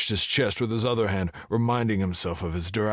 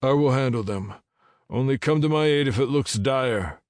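determined hero; 7 semitones higher, 5 dB louder than usual. Acted. Hero answers the dragon, resolute.

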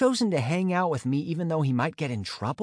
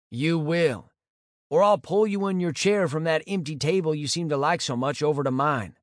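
playful threat; 3 semitones higher than usual. Acted. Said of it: "he threatened".

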